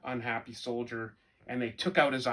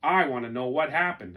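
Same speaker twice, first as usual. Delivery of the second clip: angry soldier; 5 dB louder than usual. Acted. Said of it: "said the other angry soldier".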